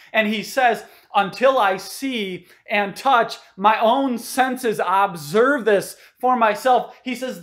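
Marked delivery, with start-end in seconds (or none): 1.1-7.0 emphatic Thomas. Retold or imitated. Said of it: "He is absolutely emphatic".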